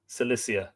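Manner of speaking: "Cilicia" said with a soft S start, falling; S sound. Shown as a demonstration. Reader settling on the S pronunciation. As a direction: say "Cilicia" as suh-LISS-ee-uh. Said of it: "pronounced with an S sound".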